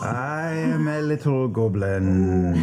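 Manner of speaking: slow, lightly voiced castmate impression; a hint of her voice, drawn out; slow teasing mimicry of a friend's voice; imitating a castmate. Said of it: "Try to sound like me".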